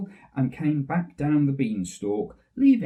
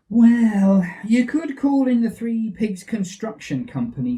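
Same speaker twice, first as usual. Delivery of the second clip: Cinderella; 6 semitones higher, 6 dB louder than usual. Acted. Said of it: "said Cinderella".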